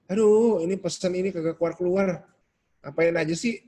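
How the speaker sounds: put-on fed-up whine; impatient griping. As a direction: act out petty exasperation. Acting out impatient social-media complaint.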